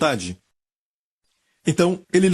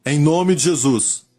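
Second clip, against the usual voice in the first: oração guiada. Real, not acted. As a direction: lead them phrase by phrase, pausing for repetition. Leads a repeat-after-me prayer. (oração pausada e enfática, frase por frase)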